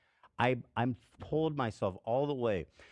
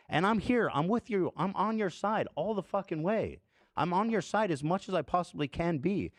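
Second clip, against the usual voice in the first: impassioned plea; 5 semitones higher than usual. Real, not acted. Impassioned plea to his cohost.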